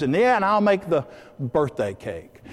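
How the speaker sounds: mildly excited, eager offer. Acted. Wife offering to bake the cake, mildly excited. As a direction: chip in with a touch of excitement. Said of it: "she gets excited and says".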